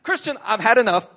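hammed-up exasperated scolding; mock exasperation. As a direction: play a fed-up boss. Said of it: "Christ doesn't say".

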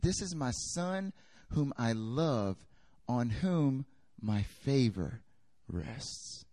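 lightly voiced voice of God, drawn out; voice from heaven. Preacher voicing God's voice from heaven, slow and solemn. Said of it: "a voice came from heaven and said".

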